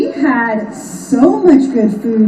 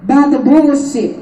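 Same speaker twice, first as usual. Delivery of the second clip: "Do not be distracted" spaced out slowly; deliberate slow warning; slow emphatic; 2 semitones higher, much slower than usual.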